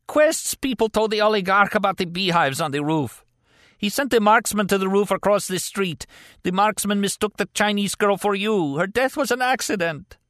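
very high, strained denial; pained, desperate captive. A narrator's reading. Injured captive denying the killing to his interrogator, desperate. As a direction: plead it high, through agony.

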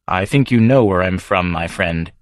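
devil hinting he knows Davy; sly devil. Acted. Devil hints identity.

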